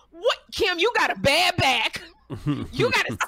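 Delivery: high, exasperated pleading with a friend; mock pleading. To stubborn friend Kim with a bad back, high pleading.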